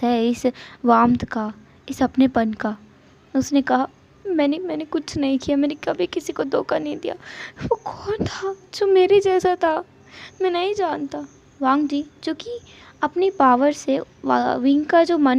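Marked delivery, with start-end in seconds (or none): 4.3-11.3 shaken denial. Acted. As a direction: plead innocence in confusion. Frightened Wing denies, confused. (डरी हुई धीमी आवाज़)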